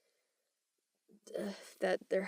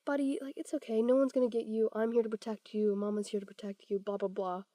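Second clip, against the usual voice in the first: reassuring parent; 4 dB quieter, faster than usual. Pretend. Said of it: "You're like".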